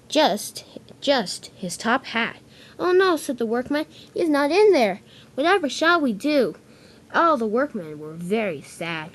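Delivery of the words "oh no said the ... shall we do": dismayed workman. Acted. Workman finds only the hat.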